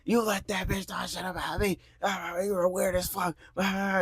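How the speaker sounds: squawky retold yelling at a contained volume; imitated yelling rant. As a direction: mimic her going off nonstop. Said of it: "yelling at me".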